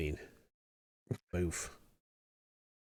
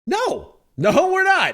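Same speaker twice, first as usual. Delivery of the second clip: squeaky, indignant no; high-pitched protest; 5 dB louder, slower than usual. Acted. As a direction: panic at losing the coat. Refuses to give up coat.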